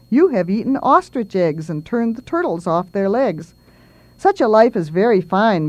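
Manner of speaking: put-on lilting, rhythmic children's verse; poem recitation.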